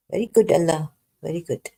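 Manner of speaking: dry sarcastic praise. Real, not acted. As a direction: fake approval, sarcastic. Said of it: "I'm just being sarcastic".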